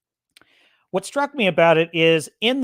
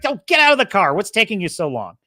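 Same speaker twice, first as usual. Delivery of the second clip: sharp, higher, louder scolding; mean mother snapping; 4 semitones higher, 4 dB louder than usual. Retold or imitated. Harsh adoptive mother snaps at the shy girl in the car. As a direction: bark it like an impatient harsh mother. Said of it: "the mother's being kind of mean to her".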